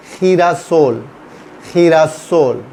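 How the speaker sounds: खीरासोल opened with a throaty KH for the G; KH sound in खीरासोल. Shown as a demonstration. Teacher showing Spanish GI to learners, खीरासोल with KH. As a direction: say खीरासोल slowly, starting KHEE. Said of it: "खी हो जाएगा".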